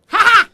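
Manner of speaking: loud, high burst of a guffaw; Liam. Acted. Imitating a co-star's laugh, loud high guffaw. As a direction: burst out with a big open-mouthed laugh. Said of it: "like, his laugh".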